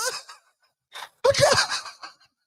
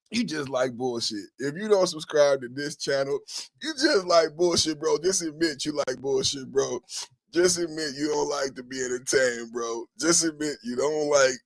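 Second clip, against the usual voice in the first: much lower, softer mocking taunt; low mock taunt at non-subscribers; 9 semitones lower, 3 dB quieter than usual. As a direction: growl it down at the viewers.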